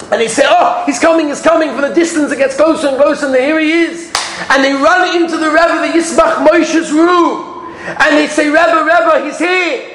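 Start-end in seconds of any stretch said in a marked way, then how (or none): 0.5-1.7 higher, eager calling out; excited announcing. Retold or imitated. Family at window, announcing the arrival eagerly. Family sees carriage approach. 8.5-9.8 bursting in with the news; urgent calling. Retold or imitated. Family rushes to the rebbe, calling excitedly.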